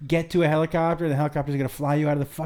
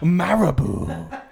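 put-on "Malibu" stretched in a comic Asian accent; mock Asian accent; much slower than usual. Host echoes co-host's line as Maddox, mock Asian accent. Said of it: "when I do an Asian voice".

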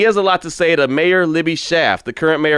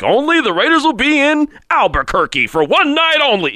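high, hammed-up radio announcer hype; mock radio DJ; 10 semitones higher than usual. Caller host mocking a radio promo for a Raiders road game, hammed-up high DJ voice. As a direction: oversell it like a cheesy local DJ. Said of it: "I don't know why I did my voice like that".

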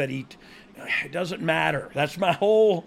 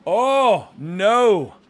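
loud, high gasp of surprise; startled cry at the move; surprised; 4 semitones higher, 8 dB louder than usual. Real, not acted. Reacting to a big move.

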